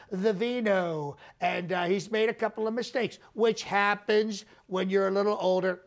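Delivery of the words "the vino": "the vino" drawn out slowly, savoring it; slow knowing "the vino"; stress on vino. Shown as a demonstration. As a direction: linger on "the vino" like a wine snob.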